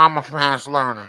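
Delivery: mock nasal echo. Mocking guest's line back.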